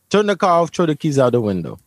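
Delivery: a mild mock yell of a barked order; retold cop yell. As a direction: replay the cop's order with some force. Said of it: "And he's yelling".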